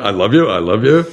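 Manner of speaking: lightly voiced parrot repeating it back; a hint of a parrot parroting; parrot echo. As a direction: echo the words like a toy parrot. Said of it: "and it comes back".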